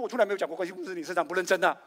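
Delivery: loud insistent denial; mock firm protest; emphatic denial. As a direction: insist hard, loudly.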